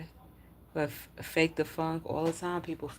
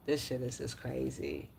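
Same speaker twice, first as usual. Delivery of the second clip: sighing; 4 semitones lower than usual. Real, not acted. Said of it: "I just sighed".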